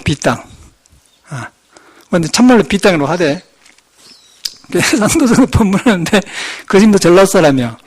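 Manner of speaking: normal talking voice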